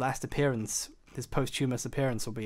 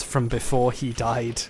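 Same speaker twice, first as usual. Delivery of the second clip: slow, louder, every word hammered; all caps read out; 6 dB louder, slower than usual. Retold or imitated. Reading a chat message typed in all caps, slow and loud. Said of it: "wrote in all caps".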